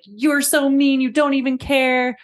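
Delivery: put-on upset child blaming her mother; accusing child. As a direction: hurl it back at mom. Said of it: "She starts saying then mean things to mom".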